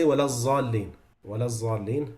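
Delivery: وَلَا الضَّالِّينَ with the dad said as a z; zay sound. Shown as a demonstration. Teacher showing another wrong recitation. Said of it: "That's also not allowed".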